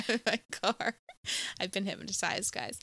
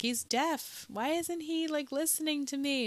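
mock yelling; 7 semitones higher than usual. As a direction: imitate an exasperated lady's yell lightly. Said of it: "the lady was yelling at him".

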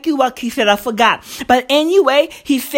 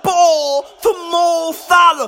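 exasperated pleading; 2 semitones higher than usual. Real, not acted. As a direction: beg the team as if it were obvious. Pleading with players to pass.

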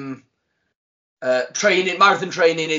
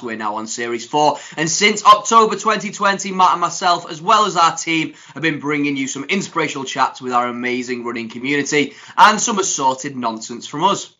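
upbeat scripted host welcome; podcast intro read; 4 dB louder than usual. Real, not acted. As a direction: open the show brightly, like a prepared announcement.

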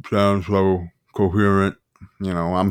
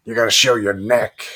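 movie monologue. Acted. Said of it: "If you've never seen The Devil's Advocate".

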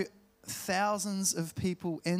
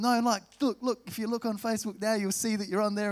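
Aussie voice; 5 semitones higher, faster than usual. Retold or imitated. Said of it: "I don't know why I'm using that voice".

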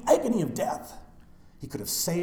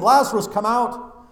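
loud call into the tomb, higher; shouting; 9 semitones higher, 11 dB louder than usual. Retold or imitated. Preacher voicing Jesus calling into the tomb, loud shout. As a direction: call Lazarus out loud and high. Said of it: "he shouts into the tomb".

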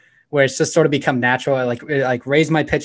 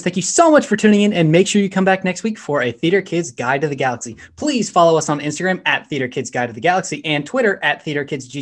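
podcast outro; 4 semitones higher than usual. Acted. Host reading the show outro to listeners, energetic. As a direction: sell the sign-off like an upbeat show host.

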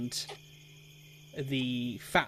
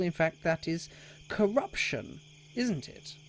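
officious lecture with swinging pitch; pompous townmaster; 2 semitones higher, 4 dB louder than usual. Acted. Townmaster warns Sildar against playing favourites, pompous and pointed. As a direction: needle him with the rules, pointedly.

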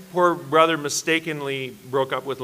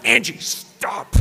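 drawn-out, half-shouted plea to stop; mock embarrassed protest; 3 semitones higher, much slower than usual. Teen leader silencing his crush's little sister, mock embarrassed protest. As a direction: stretch it out in hammed-up mortification.

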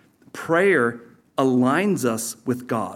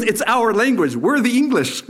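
higher, emphatic imitation of an English accent; mock English accent; 9 semitones higher, 4 dB louder than usual. Old English preacher teasing his American hosts, imitated English accent. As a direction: play the proud Englishman, accent pushed up high. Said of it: "Stanley was good old Englishman".

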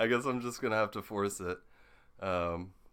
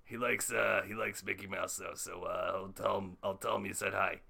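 Rick Sanchez impression. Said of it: "Rick Sanchez".

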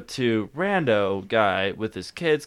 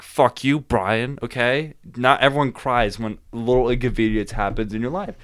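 retold anger. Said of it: "I was pissed".

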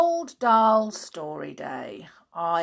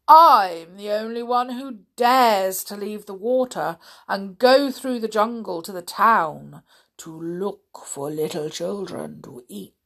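greedy enormous crocodile; 6 dB louder than usual. Acted. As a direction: gloat like a hungry crocodile. Story figure voice.

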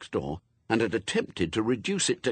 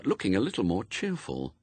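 ordinary delivery, nothing marked

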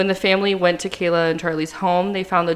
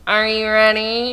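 slow, drawn-out hype question; hype call; 3 semitones higher, slower than usual. Acted. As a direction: stretch it out like a host. Podcast intro hype call.

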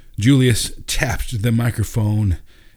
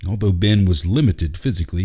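ordinary delivery, nothing marked

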